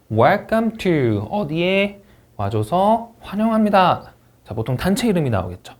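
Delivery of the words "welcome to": slow "welcome to" read as one chunk; grouped phrase. Shown as a demonstration. Teacher modeling phrase grouping for a test item. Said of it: "나왔던 거 한번 정리를 해보면".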